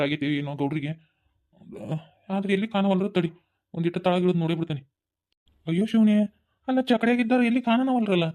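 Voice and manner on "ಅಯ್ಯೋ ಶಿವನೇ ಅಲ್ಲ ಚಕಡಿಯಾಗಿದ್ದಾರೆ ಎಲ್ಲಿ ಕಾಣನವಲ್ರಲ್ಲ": louder alarmed exclamation; startled by the empty cart; sudden alarm on finding nobody there. Acted. Finds overturned empty cart.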